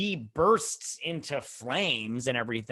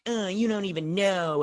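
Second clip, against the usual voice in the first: mock exasperation; 7 semitones higher than usual. Acts out pissed-off woman.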